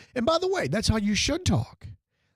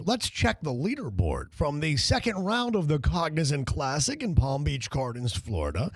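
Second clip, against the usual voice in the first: sports broadcaster; 2 semitones lower than usual. Retold or imitated. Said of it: "you sound like".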